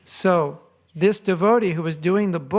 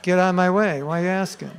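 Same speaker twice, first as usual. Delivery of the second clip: louder, pushy mock New York snap; a hammed-up rude New Yorker; brusque New Yorker; 3 semitones higher, 6 dB louder than usual. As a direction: brush them off like a gruff New Yorker. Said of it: "Like that".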